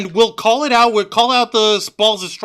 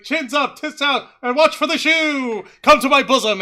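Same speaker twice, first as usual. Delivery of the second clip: imitating Toni Storm; 4 semitones higher than usual. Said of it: "like, like".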